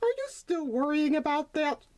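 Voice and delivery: a mother gently checking in; gentle mother donkey. Acted. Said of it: "she asked".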